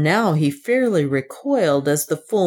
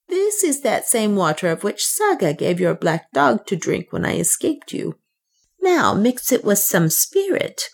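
a touch higher for the woman Soa, earnest and pleading; a hint of a scheming servant woman; Soa, lightly voiced; 3 semitones higher than usual. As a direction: lightly voice the African woman laying out her plan. Soa's voice.

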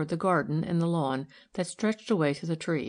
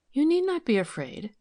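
higher-pitched, gentle reassurance; kindly; 9 semitones higher than usual. A narrator's reading. Milly calms the frightened maid, kindly. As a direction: reassure a nervous servant kindly. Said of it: "said Milly kindly".

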